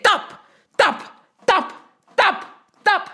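raging ocean. Acted. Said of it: "raging and saying".

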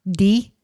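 DEFIBRA broken as "dee... fib... ruh"; long gaps between the syllables of defibra. Shown as a demonstration. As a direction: sound out "defibra-" piece by piece. Sounding out the word by syllables.

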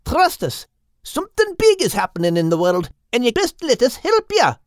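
high bird voice, patient explaining; Crinan's voice. Acted. Crinan persuades the group.

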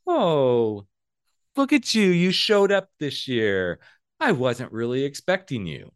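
high, drawn-out mock delight; dripping sarcasm. Somebody greeting you at a holiday event, dripping with sarcasm. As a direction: fake surprise laced with narcissistic shade. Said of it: "drip, drip sarcasm in there".

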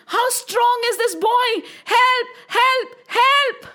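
high wailing alarm; giddy, panicked serpent. Acted. Kalia cries as Krishna dances on him, high and giddy. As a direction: cry out dizzily for help. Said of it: "Kalya Nag started feeling so, so, so giddy".

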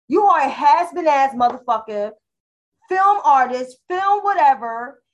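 loud, heated telling-off; fired-up rant at a filmmaker; angry callout. Real, not acted. Angry callout addressed to Mister Ashroy.

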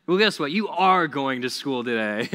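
loud, firm mock-parent retort; parent overruling kid. Parent answering a kid who refuses school, firm retort. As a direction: overrule the kid, leaning on ARE.

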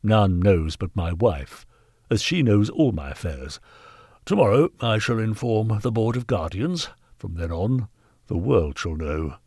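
lightly voiced haughty threat; stern knight. Knight threatening to inform the Board, coolly stern.

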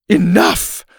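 loud, high teacher's reprimand; scolding. A narrator's reading. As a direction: cut the class off sharply. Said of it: "Missus Arthur scolded".

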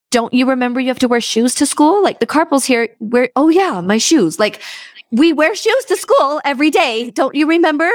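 high-pitched exasperated scolding; a frantic mom nagging about the forgotten shoes; panicked mom. Retold or imitated. Mom scolding her son for forgetting shoes, high and exasperated. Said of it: "there's a sense of panic".

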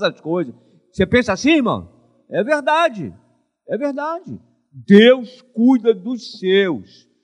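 loud, rising sermon voice; full-force preaching. Acted. Pastor rousing the congregation, loud preaching. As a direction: preach it out, raising the house.

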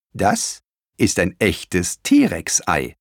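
slow, lightly voiced grandmother; grandma explaining. Grandma explaining the egg to the children, slow and lightly voiced. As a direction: explain it slowly like a granny. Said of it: "erklärte Oma".

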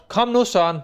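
mock shout to hurry up; retold shout. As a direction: yell after a friend lagging behind. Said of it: "så jeg råbte".

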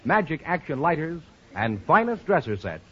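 measured radio closing credits; announcer sign-off. Acted. Announcer closing the show over music, formal read.

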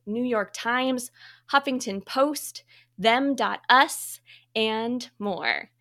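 polished host introduction with deliberate phrasing; guest bio read. Acted. Host introduces a trailblazing guest, formal bio read. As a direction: present the guest's credentials, item by item.

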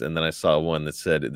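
ordinary delivery

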